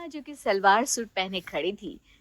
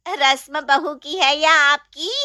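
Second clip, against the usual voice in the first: taunting aunt; 3 semitones higher, 4 dB louder than usual. Acted. Chachi taunts the sister-in-law.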